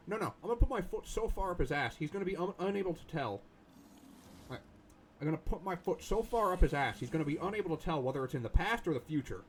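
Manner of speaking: ramp up the boast, getting carried away; excited boast. Real, not acted. Escalating boast about the enemy.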